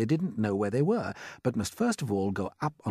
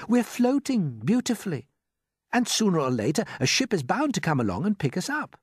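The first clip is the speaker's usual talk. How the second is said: calm James; 10 semitones higher, 4 dB louder than usual. A narrator's reading. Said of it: "said James calmly".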